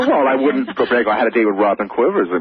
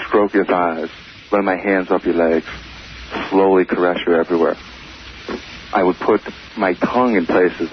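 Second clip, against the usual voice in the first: mock romantic; 2 semitones lower than usual. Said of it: "He just said something very romantic".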